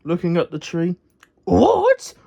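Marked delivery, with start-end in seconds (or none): 1.4-2.1 high, loud outraged What; roaring. Acted. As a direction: bellow it in disbelief. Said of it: "roared Muck".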